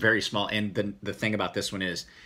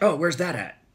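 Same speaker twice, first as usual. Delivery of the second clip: mock panic; 8 semitones higher, 5 dB louder than usual. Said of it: "I flip out because I look down and I'm like".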